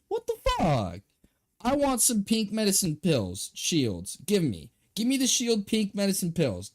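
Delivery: high whiny gimme chant; childish demanding. Pretend. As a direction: demand it like a greedy toddler. Playfully demanding the pills.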